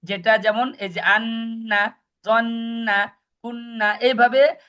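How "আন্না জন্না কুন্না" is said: আন্না, জন্না, কুন্না with a drawn-out humming "nn", pitched up; ghunnah demonstration. Shown as a demonstration. Teacher showing students the ghunnah rule, long hummed "nn" in আন্না, জন্না, কুন্না. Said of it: "গণ্যা করা ওয়াজিব".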